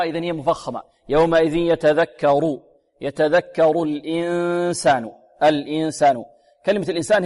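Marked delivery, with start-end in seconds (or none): 1.1-2.6 slow, measured tajweed recitation; Quran recitation. Shown as a demonstration. Teacher models a verse for students, slow recitation. 3.0-6.2 slow, measured tajweed recitation; Quran recitation. Shown as a demonstration. Teacher models a verse for students, slow recitation.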